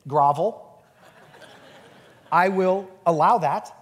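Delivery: lightly voiced smug grudge-holder, not far from his own voice; a hint of haughty condescension, savoring each word; pompous self-mock. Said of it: "let me tell you the crappy version of forgiveness".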